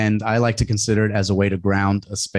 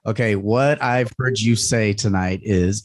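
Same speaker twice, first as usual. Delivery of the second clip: calm summary. Shown as a demonstration. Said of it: "Summarizing would be".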